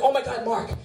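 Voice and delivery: thrilled, rising gasps of delight; excited girlfriend. Retold or imitated. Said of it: "She's like".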